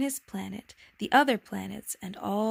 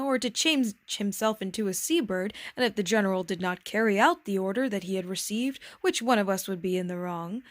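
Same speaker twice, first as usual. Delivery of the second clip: lecturing king. Acted. King argues his rule.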